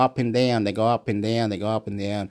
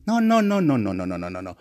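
tumbling refusal; 4 semitones lower, faster than usual. Acted. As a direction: rattle off the no's, sliding down into softness. Acted string of refusals.

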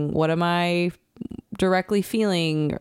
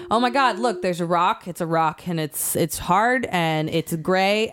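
mock frantic describing. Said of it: "you're just like".

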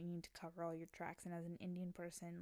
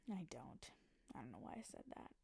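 sigh, then a low, soft whispered retraction; embarrassed whisper; 6 semitones lower, 8 dB quieter than usual. Real, not acted. Catching herself after an odd remark, whispered and low. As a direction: take it back under your breath.

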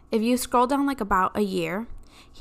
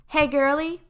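sweet-talking greeting, higher pitch; fake-nice brother; 7 semitones higher, 4 dB louder than usual. Brother buttering up his sister, fake-nice. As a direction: put on a nicey-nice brother voice. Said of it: "trying to seem like he's a nice person".

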